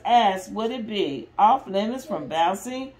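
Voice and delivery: lively, expressive picture-book reading; mother reading a Disney story to restless kids, lively and expressive; reading to children. Acted. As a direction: read it out big for the little ones. Reads story aloud to kids.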